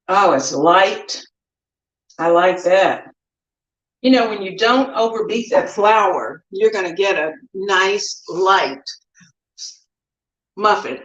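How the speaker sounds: talking through a mouthful; chewing while talking; mouth full. Real, not acted. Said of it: "I'm talking with my mouth full".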